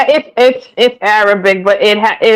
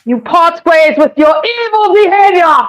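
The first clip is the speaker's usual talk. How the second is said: lightly hammed-up old-style Bible reader; Shakespeare voice; 3 semitones higher than usual. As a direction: preach it like an old English Bible recording, half in jest. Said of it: "I only use that voice".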